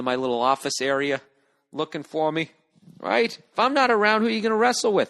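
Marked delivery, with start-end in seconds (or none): 3.0-5.1 higher playful pet voice; lightly raised doggy talk. Real, not acted. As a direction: tease the dog affectionately. Talking to his dog.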